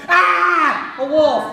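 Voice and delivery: mock frightened piggy yelp; scared pig. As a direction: yelp like a piglet spotting the wolf. Second pig panics.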